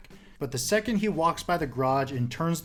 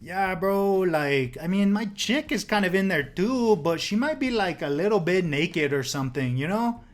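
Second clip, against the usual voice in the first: higher, easygoing dude voice; stoner dude again; 4 semitones higher than usual. Retold or imitated. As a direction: shrug it off casually. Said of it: "And he's like".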